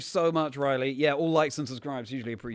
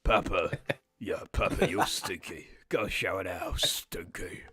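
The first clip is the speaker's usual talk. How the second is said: lightly voiced whispery little girl; little daughter voice; 5 semitones lower, slower than usual. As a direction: tease Papa like a little kid. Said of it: "I'll be the daughter".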